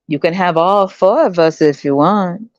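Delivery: slow, sweet put-on woman's voice; mock flirty woman. Women offering themselves to the foreigner, slow sweet voice. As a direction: lure him in slowly.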